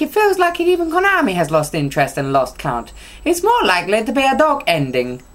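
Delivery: a light put-on Italian read; mock Italian accent. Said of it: "my version of Italian".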